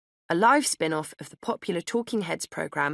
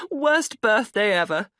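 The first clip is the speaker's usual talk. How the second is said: laughing; 5 semitones higher, 6 dB louder, slower than usual. A narrator's reading. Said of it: "she laughed".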